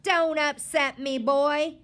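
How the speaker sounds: loud, high startled grandma; alarmed cry. A narrator's reading. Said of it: "his grandma cried".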